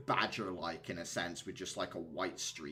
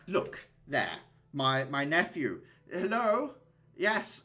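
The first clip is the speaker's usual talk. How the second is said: higher, louder hearty uncle calling across the deck; jovial uncle; 7 semitones higher, 6 dB louder than usual. Acted. Uncle hailing nephew Caliban across the deck, hearty and loud. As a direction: play the chubby rich uncle spotting his nephew.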